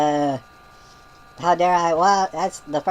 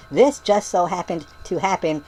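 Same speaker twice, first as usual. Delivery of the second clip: mock yelling. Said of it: "she's yelling that at me".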